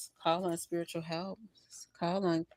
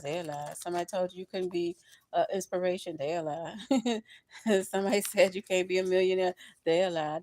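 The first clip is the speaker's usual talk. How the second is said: preachy refrain. Acted. Preaching rhythmic encouragement.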